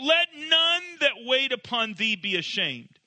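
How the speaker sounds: high, slow, pleading cry; desperate plea. Shown as a demonstration. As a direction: beg not to be shamed, voice lifted high. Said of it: "as he would cry out".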